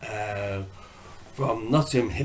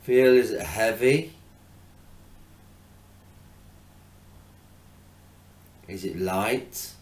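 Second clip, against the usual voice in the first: measured, spacious meditation coaching; guided meditation; 6 dB quieter than usual. Acted. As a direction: gently guide attention to the breath, unhurried. Leads a breathing meditation.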